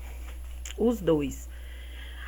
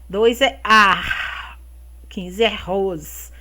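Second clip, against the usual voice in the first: slow syllable reading; 3 semitones lower, slower than usual. Shown as a demonstration. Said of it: "formou arroz".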